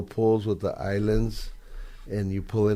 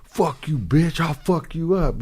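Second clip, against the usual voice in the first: high, slow taunting voice; hammed-up taunt, higher and slower; mock street tough; 8 semitones higher than usual. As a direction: ham up a punk yelling back over his shoulder. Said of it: "looking back, like".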